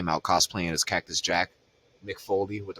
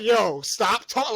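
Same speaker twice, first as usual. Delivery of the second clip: mock annoyed; 11 semitones higher, 5 dB louder, slower than usual. Voicing Bianca cutting Naomi off.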